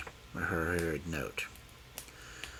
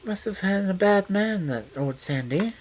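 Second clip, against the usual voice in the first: sympathetically; 13 semitones higher, 5 dB louder than usual. A narrator's reading. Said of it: "said Loveday sympathetically".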